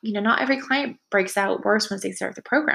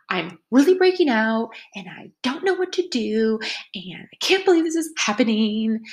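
breathless frantic whisper; panicked whisper; 3 semitones higher than usual. Retold or imitated. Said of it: "You may hear it as".

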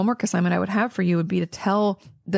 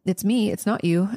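usual speaking voice

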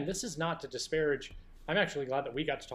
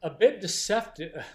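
slow, high, louder condescending read; 5 semitones higher, 8 dB louder, slower than usual. Acted. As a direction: read it down your nose, slowly. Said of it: "somewhat condescending voice".

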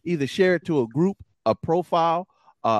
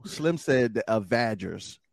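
ordinary talk

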